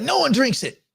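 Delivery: high, flat dismissal from a Kiwi friend; New Zealand friend's scoff. Retold or imitated. Friend from New Zealand dismissing Foster's, high mock scoff. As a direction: knock it down like nobody would touch it. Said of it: "She's like".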